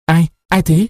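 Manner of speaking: feigned surprise. A narrator's reading. Man faking waking up to her call, mock startle. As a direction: pretend to be jolted awake. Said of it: "Nó làm như vừa mới giật mình".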